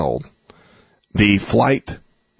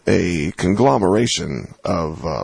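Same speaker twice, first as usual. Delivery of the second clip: public radio host; 4 semitones lower than usual. Shown as a demonstration. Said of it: "say in an N P R voice? In a public radio voice?".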